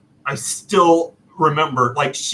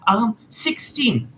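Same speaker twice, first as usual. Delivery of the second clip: pitched way up, light and polite; high clerk voice; 13 semitones higher than usual. Retold or imitated. Clerk answering the customer, in a high polite voice. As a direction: squeak it up like a friendly clerk. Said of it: "She was like".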